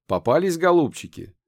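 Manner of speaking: loud, high gloating taunt; triumphant. A narrator's reading. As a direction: crow it over the caught pair. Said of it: "торжествующе спросил".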